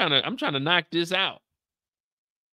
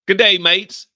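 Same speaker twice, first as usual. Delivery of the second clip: loud, badly faked British greeting; hammed-up British accent, raised pitch; attempted UK accent; 4 semitones higher, 11 dB louder, slower than usual. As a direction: boom it out in mock British. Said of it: "sounds like it's about to be Irish".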